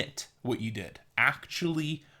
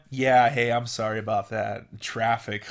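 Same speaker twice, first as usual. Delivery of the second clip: dismissive mock apology; 3 semitones lower than usual. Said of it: "Instead of just going".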